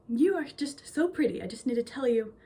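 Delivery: softly spoken, sincere admiration; genuine, kind compliment. Retold or imitated. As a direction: retell a stranger's heartfelt compliment, softening toward the end. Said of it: "it's just so genuine and so".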